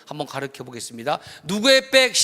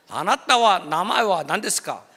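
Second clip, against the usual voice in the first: mock Japanese; 4 dB louder than usual. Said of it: "저 일본어 하는 사람인데".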